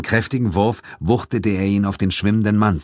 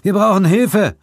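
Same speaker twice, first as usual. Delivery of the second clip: high, loud shout; shouting for help; 6 dB louder than usual. Acted. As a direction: call the others urgently. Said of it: "rief Suko". (laut um Hilfe rufen)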